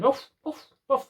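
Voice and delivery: high, friendly imitated bark "ruff, ruff". Trainer imitating a dog greeting from the garden, high playful ruff. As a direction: yap like a happy dog saying hello. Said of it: "they're going".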